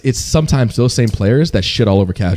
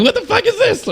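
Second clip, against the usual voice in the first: high-pitched incredulous squeal; mock your own confusion, breaking into laughter; laughing bewilderment. Streamer recalling a stranger waving at him mid-stream, laughing high disbelief.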